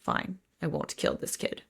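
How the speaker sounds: soft, breathy, reluctant give-in; grudging mutter. Retold or imitated. The villain grudgingly sparing the child, hushed muttered concession. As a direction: concede it under your breath, annoyed. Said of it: "He's like".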